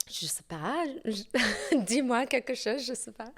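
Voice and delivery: speaking French with a native lilt; French accent. Real, not acted. To the host, in French, with a true French accent. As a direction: let the French flow naturally, unforced. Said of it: "That's a very good French accent".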